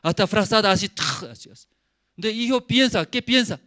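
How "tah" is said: short burst of noise; imitated blanket whoosh. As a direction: mimic a blanket snatched off.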